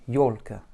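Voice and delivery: ёлка with a weak, reduced final а. Shown as a demonstration. Teacher modelling ёлка for learners, reduced final A. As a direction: say ёлка, stressing ё and weakening the а. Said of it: "avec un A réduit".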